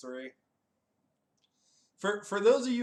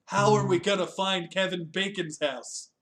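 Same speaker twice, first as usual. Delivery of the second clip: lightly acted, louder questioning character; acted movie question; 3 semitones higher, 5 dB louder than usual. Retelling the Kevin Bacon's house scene, raised questioning voice. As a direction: put the question up and out, playfully.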